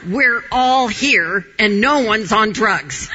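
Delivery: imitating her son. Son calming his upset mother.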